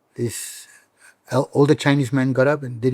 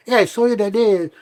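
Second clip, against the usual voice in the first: puzzled friend; 7 semitones higher than usual. Retold or imitated. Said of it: "my friends be like".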